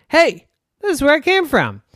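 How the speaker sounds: put-on squeaky delighted child; happy high girl voice. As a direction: announce it high and bright. Girl arrives home.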